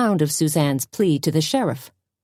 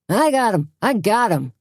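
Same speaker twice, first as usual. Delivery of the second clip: high gleeful yell; triumphant yell; 5 semitones higher than usual. A narrator's reading. Junior boasting to the cheering crowd, high gleeful yell. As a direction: crow it to the crowd. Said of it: "yelled Junior".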